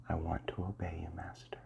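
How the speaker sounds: hushed whisper, Master barely breathed; soft whisper. Shown as a demonstration. Hypnotist prompting the listener to repeat, hushed whisper. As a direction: breathe the phrase for them to echo. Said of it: "Say this now".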